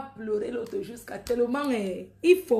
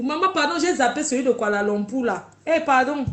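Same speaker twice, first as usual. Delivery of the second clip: loud mock apology; 3 semitones higher, 5 dB louder than usual. Apologizing loudly to mum.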